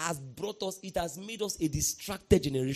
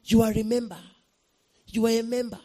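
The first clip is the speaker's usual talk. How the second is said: louder, firmly voiced repeat of a revelation; raised-voice declaration; voiced message; 4 semitones higher, 6 dB louder than usual. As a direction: say it out strongly, no longer hushed. Repeats the whispered message aloud.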